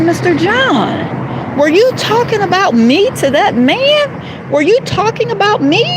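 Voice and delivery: drawn-out, accusing question; confronting. Retold or imitated. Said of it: "And I said".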